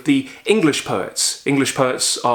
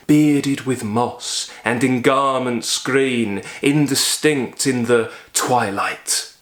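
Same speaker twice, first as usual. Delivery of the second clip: slow, lilting reading of a verse line; poetry recitation. Shown as a demonstration. Lecturer reciting Longfellow's Evangeline to the class, slow and lilting. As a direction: let the dactyls roll, unhurried. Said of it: "It goes like this".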